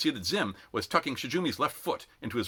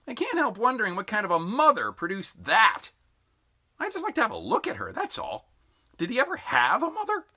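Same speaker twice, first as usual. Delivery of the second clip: higher, louder scornful remark; somewhat louder; 12 semitones higher, 5 dB louder than usual. A narrator's reading. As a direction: needle the sergeant within earshot. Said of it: "somewhat more loudly".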